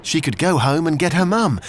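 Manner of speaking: ordinary delivery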